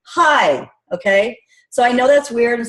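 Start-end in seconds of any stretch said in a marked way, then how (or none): 0.0-0.7 hi with a big smile, a bit louder; smiling hi. Shown as a demonstration. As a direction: beam as you say hi. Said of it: "I come out with a big old smile".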